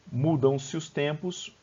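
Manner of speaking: slow, deliberate recitation of a line; measured verse reading. Shown as a demonstration. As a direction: read the verse out slowly and evenly. Reads the verse for scansion.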